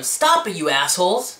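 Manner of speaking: put-on fat kid yelling at his bullies over his Slurpee; yelled at them. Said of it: "so I yelled at them".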